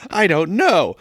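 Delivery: put-on high little-girl whine; hammed-up tearful child; mock wailing child. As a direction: whine it like a lost child about to bawl. Lost girl about to wail.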